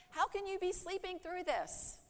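high, frantic pleading at a sleeper; panicked disciples. Acted. Disciples shaking sleeping Jesus awake, high panicked plea. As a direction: cry out in alarm over the storm. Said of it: "shook him awake violently, saying".

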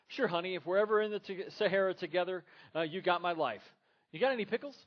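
acted couple quarrel. Preacher acting out Gloria and Michael, loud and high.

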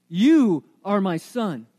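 slow, emphatic declaration with a shout; father's proclamation. Retold or imitated. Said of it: "The father says".

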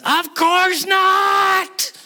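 loud, high, drawn-out yell; emphatic exclamation shouted at the top of the voice. Acted. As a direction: bellow it slowly, stretching every word. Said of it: "He's yelling there".

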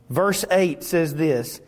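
usual speaking voice

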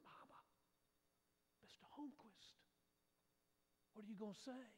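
whispered urgently, words barely voiced; a nervous kid hissing so the neighbour can't hear; anxious child's whisper. Child whispering to mother as neighbour is within earshot.

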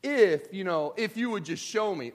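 mock prayer of a frustrated believer, loud and pleading; pleading with God. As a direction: beg God to show you why. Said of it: "people that are like".

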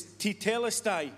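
tetelestai said as tee-TELL-es-tie, each syllable clear; Greek word said carefully. Shown as a demonstration. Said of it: "all different ways of saying it".

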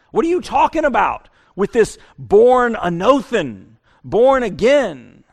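disbelieving Nicodemus. Acted. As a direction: push back at a strange idea.

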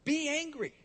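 preacher's forceful command; imperative command. Retold or imitated. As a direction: command it firmly. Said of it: "in the imperative tense".

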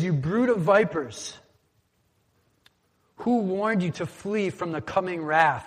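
stern prophet. Acted. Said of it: "He says".

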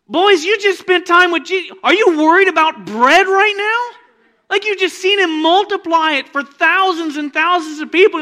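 loud, high scolding preacher; exasperated preaching. Acted. Preacher scolding the disciples, loud and exasperated. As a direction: shake them awake with disbelief.

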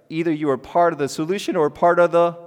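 out loud. Shown as a demonstration. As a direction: say it out loud so they finish the phrase. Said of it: "let's say that out loud".

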